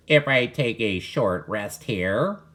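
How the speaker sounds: lightly voiced hesitant duck, slow; barely changed voice for a tired duck; a hint of a shy duck. The tired duck asks Walter for a rest, lightly voiced.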